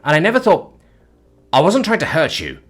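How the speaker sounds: fighting off panic for his friend; begging the alien to be okay; desperate. Acted. Preston desperate over injured Mikri.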